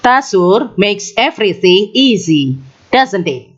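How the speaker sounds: tag question falling at the end, seeking agreement. Shown as a demonstration. Teacher demonstrating a confident tag to students, falling tag. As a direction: let "doesn't it?" drop down, sure of the answer. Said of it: "Dengarkan lagi".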